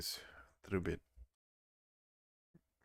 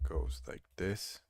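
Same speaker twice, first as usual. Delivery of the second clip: usual speaking voice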